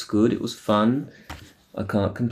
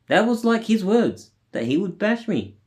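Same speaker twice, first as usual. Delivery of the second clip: outraged; 11 semitones higher than usual. Real, not acted. Outraged at the cop's threat.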